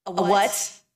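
a light curious rising question; mild puzzled question. Acted. Homer asks his friend what a chrysalis is: mildly puzzled. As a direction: ask gently, not quite understanding. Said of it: "said Alex".

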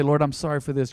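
soft, hushed confession; whispering. Shown as a demonstration. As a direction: lean in and say it softly. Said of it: "whisper your sin to the Lord".

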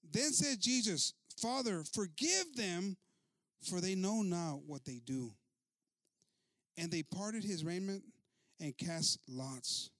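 slow, weighty Bible reading; scripture reading. A narrator's reading. Preacher reading Luke to the congregation, slow and declamatory. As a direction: proclaim the verses slowly, phrase by phrase.

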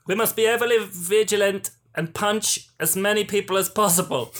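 put-on failed Italian accent; rally them in a bungled Italian accent; shaky Italian accent. Villain calling for vigilance, botched Italian accent. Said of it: "I can't do an Italian accent".

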